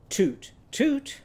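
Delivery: high owl call in two notes; owl hoot. Shown as a demonstration. Teacher answering as Timmy Tiger's owl, high owl hoot. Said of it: "What would Timmy Tiger's owl say?".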